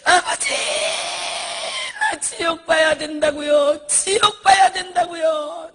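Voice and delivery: crying out to God for a vision of hell; shouted plea. Retold or imitated. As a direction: shout each word at God, pleading. Retold prayer, shouting to God.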